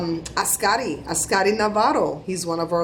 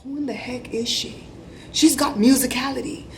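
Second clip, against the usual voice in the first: quoted judges, pitched higher; lightly voiced impressed judge, raised and marvelling; 5 semitones higher than usual. Judges marvelling at little Caleb's singing, impressed higher voice. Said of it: "and they were like".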